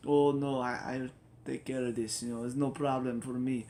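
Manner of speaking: lightly put-on Jamaican accent; a bad, hammy Jamaican accent. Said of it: "the terrible Jamaican accent".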